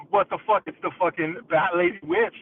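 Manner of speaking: alarmed outcry; retold alarmed yell. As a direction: shout in panic at the bat lady. Seeing the bat-faced witch.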